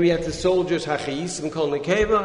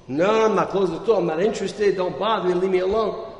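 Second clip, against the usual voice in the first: louder, higher, annoyed brush-off; angry refusal; 4 semitones higher, 5 dB louder, faster than usual. Acted. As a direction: push him away, fed up. Store owner refuses the Rav.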